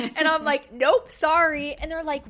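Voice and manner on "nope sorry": firm refusal. Retold or imitated. Mom refusing kids candy.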